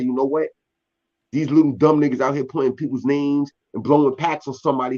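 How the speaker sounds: ordinary delivery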